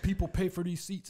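squeaky-high impersonation of the usher through laughter; mock usher. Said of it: "he goes".

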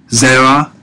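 "zera" with emphasis on ZE; stress on first syllable. Shown as a demonstration. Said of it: "notice the emphasis on the first syllable".

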